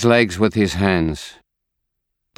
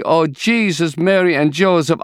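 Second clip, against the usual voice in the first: screaming in grief; 9 semitones higher than usual. A narrator's reading. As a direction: cry it out in anguish. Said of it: "She screams".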